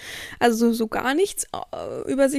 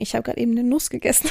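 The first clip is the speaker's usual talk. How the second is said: talking right after a sip; words just after swallowing a drink; while sipping a drink; faster than usual. Real, not acted. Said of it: "Ich muss erstmal einen Schluck trinken".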